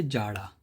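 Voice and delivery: जाड़ा with a plain J, no buzz; the undotted J sound in जाड़ा. Shown as a demonstration. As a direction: say जाड़ा with J as in jar. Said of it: "बोलने का तरीका है, वो बदल जाता है".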